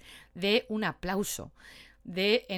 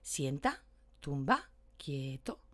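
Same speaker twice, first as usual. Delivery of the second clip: soft dog commands, much quieter; 7 semitones lower, 7 dB quieter, slower than usual. Shown as a demonstration. Trainer demonstrating gentle commands to a dog, very soft. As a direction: say each command gently and low. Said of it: "muy suave".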